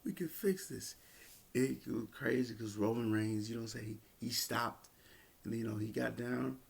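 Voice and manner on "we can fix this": higher pleading voice, imitating Jimmy; mock pleading higher voice, hands-off plea. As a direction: talk him down like a worried brother, pitched up. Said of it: "He was like".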